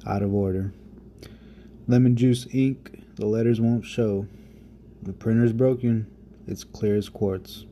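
spoken-word poem, unhurried; poem recitation. Acted. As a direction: let each image land with pauses. Reads his poem aloud.

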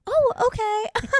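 high, slow crestfallen oh okay; deflated oh okay. Retold or imitated. Host retelling her reaction to rejection, mock crestfallen. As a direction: let the hurt show, hammed-up. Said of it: "And I was like".

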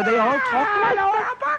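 very high, sing-song mock Welsh; Welsh accent. Shown as a demonstration. Band members imitating the Welsh, high caricature accent. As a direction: pipe it up in exaggerated Welsh. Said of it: "we've got Wales".

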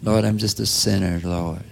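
mock priest's plea. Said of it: "the priest is saying".

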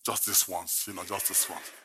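soft, coaxing inner voice; hushed mock temptation; tempted self-talk. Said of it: "I said".

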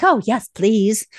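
slow, drawn-out put-on voice; a touch of a delighted British tourist; eager tourists. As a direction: play the grateful Brit abroad, slowly. British tourists accepting offer.

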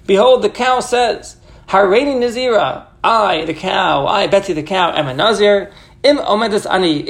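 lightly voiced stubborn cow, slow and drawn out; a hint of a proud cow announcing its vow; talking cow. Teacher voicing the cow refusing to stand, mock solemn and slow. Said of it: "as if the cow is speaking".

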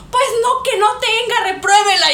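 mother telling the teacher to fail her daughter, defiant; defiant mom. Retold or imitated.

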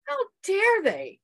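how dare they, high, loud and slowed; furious how dare they. Retold or imitated. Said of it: "I was furious".

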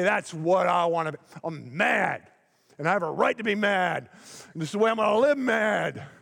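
a voiced self-righteous grumbler, stubborn and sulky; mock angry believer. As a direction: play the person who insists on living mad. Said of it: "we pick out one day ... and say".

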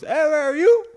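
high, loud mock-angry squawk; mad catchphrase. Teammate answering a question about track, high mock anger. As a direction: snap it back as a high, exaggerated imitation. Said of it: "Like, all mad".

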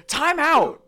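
loud, high mock shout; imitated call for pause. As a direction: yell it out high, imitating the character. Quoting Runt's panicked cry.

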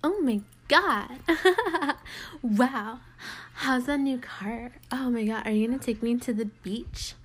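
put-on amp up the voice like a bubbly Valley Girl. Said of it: "amp up my normal voice and be like".

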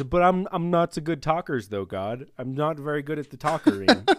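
mock Moses. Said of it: "I can say it this way".

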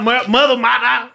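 "mother" said as "mada", no r at the end; African-style mother. Shown as a demonstration. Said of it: "You know Africans say mother".

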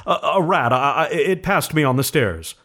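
put-on stuttering old man, high and trembling; shaking tone. A narrator's reading. Husband covering his fear to his wife, stammering. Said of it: "in a shaking tone".

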